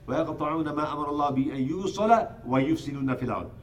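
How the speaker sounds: rapid chanted Arabic recitation; flowing Quranic recitation, quick and even. Acted. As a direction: recite the verse fast, in one breath. Quran recitation inside sermon.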